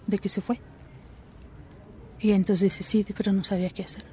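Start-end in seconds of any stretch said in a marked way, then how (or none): 2.8-4.0 quick hushed whisper, barely voiced; whispered excuse. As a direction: murmur the excuse fast under your breath. Padre retoma lo que dijo al irse. (susurro rápido, casi sin voz)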